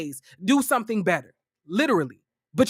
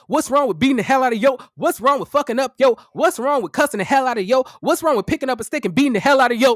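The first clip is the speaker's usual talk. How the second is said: fast, pushed mock rant full of sarcasm; sarcastic rapid-fire mockery; mocking Freudian slip; 3 semitones higher, 3 dB louder, faster than usual. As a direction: rattle off the questions like an exposed liar. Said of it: "He was like".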